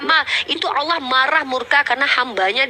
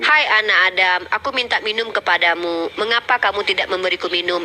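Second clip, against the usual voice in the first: reciting scripture; 5 semitones lower than usual. Acted. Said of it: "Sekali lagi saya ulangi ya".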